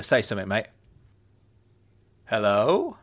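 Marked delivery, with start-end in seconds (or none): 2.3-3.0 tinny voice through a phone speaker; distorted phone voice. A narrator's reading. Benedict on speakerphone to the group, distorted phone voice. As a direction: sound like you're coming through a speakerphone. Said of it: "Benedict's distorted voice popped through the speaker".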